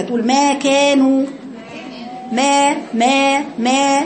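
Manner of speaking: ما said slowly with jaws wide open; open meem demo. Shown as a demonstration. Teacher drilling the open meem for Heba, slowly. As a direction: open the mouth fully on ما and hold it. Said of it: "تقرأها كذا".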